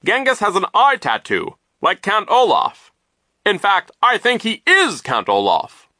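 high, loud shout of discovery; loud, high-pitched excited voice; astonished exclamation. A narrator's reading. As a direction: call it out in amazed alarm. Poe exclaims his discovery.

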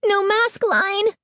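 high, slow horrified cry; slow panicked cry. A narrator's reading. Girl finding no mask line, slow horrified cry. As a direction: drag it out in disbelief. Horror at mirror reflection.

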